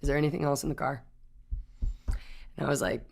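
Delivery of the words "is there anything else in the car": cop question. Retold or imitated. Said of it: "And he goes".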